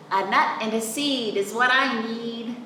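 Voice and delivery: a hint of a squirrel.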